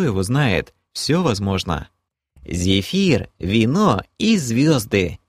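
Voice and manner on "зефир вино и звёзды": slow, dreamy sigh of delight. Acted. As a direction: savour each word dreamily. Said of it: "мечтательно произнесла Кэлен".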